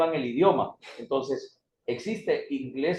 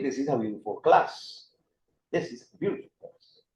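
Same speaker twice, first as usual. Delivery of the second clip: American English with "beautiful" as "byoo-di-ful"; American-style "beautiful", t softened to a tap; American accent; 2 semitones lower, 4 dB quieter than usual. Shown as a demonstration. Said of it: "si la pronuncio en inglés americano".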